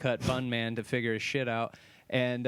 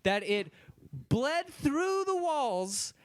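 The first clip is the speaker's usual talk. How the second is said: mock high pitch; 5 semitones higher than usual. Mocking exaggerated claim.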